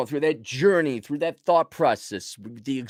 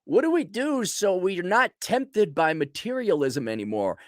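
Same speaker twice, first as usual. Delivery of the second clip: mock naive questioner; 6 semitones higher than usual. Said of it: "if you're like".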